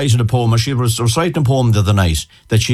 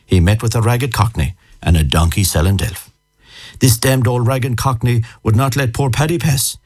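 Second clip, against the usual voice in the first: poem recitation. Acted. Guest reciting an old school poem for radio listeners, lilting recitation. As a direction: recite a rhyming yarn in measured phrases, pausing between lines.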